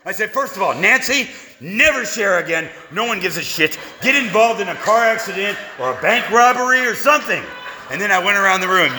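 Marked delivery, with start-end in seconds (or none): 0.3-7.4 mock tirade. Acted rant at Nancy in meeting.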